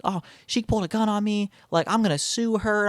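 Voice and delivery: high-pitched mock yell at normal volume; retold yelling. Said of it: "still yelling".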